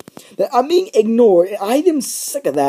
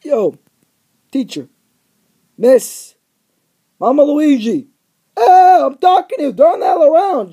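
calling out; 3 semitones higher, 3 dB louder than usual. Retold or imitated. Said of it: "I'm like".

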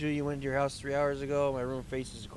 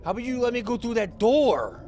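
exasperated plea; 8 semitones higher, 6 dB louder than usual. Real, not acted. Pleading with game to escape.

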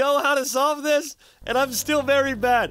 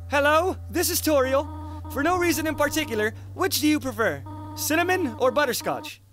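a lightly raised, kindly goat mom; gentle motherly voice; 4 semitones higher than usual. Acted. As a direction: read it as a caring mother calling. Voicing Toriel on the phone.

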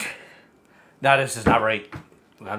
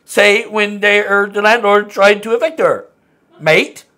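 put-on Australian accent; 3 semitones higher than usual. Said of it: "It's Australian".

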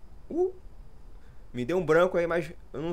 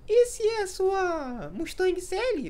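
very high, slow mocking squeak; squeaky little voice; much slower than usual. Mocking a teammate's mistake mid-match in a squeaky voice. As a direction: drag it out slowly in a tiny high voice. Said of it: "com essa vozinha".

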